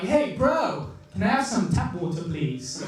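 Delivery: put-on accent wandering between American and British; mixed accent. Newcomer to London asking for tap water, mixed accent. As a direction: start American bro, drift into polite British. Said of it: "my accent's, like, all over the place".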